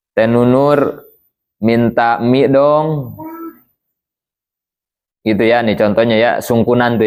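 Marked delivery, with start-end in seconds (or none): 0.1-3.1 put-on whining child. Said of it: "gitu kata si Tim-Tim ya".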